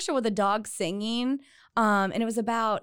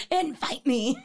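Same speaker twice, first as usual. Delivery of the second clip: higher mimicry of a friend's croak; mocking imitation; 4 semitones higher than usual. Teasing a friend who asked along, mock croak. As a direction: echo it back, teasing, through laughter.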